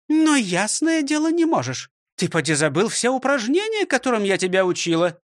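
high, stern teacher voice; strict. Acted. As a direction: correct him sternly. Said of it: "строго сказала Фрёкинсталь". (строго)

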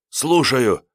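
strained hoarse exhalation; hoarse, alien voice. A narrator's reading. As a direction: blurt it out in a husky, unfamiliar voice. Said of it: "выдохнул я в трубку сиплым, каким-то чужим голосом".

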